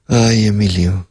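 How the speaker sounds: a light hint of a Chilean accent on the sigh; mild Chilean-accented ay. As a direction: sigh the name the way a Chilean mother would, lightly. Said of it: "with her Chilean accent".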